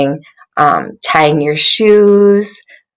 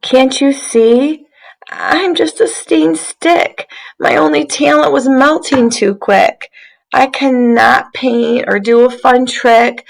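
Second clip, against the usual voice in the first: sad stick voice; 6 semitones higher than usual. Acted. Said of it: "Stick lamenting in story".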